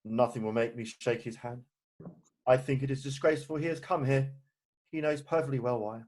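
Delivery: low, quiet, stubborn refusal; sullen refusal. Acted. Uncle refuses to greet his supposed brother, sullen refusal. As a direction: keep it down and unyielding.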